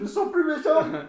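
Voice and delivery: high, slow, frantic shouting; in ice cold water. Acted. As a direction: cry out like freezing in icy water. Acted swimmer in ice bath.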